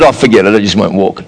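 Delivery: low, sulky quitting voice; lightly voiced child giving up; mock giving up child. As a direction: sulk like a toddler quitting. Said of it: "where you said".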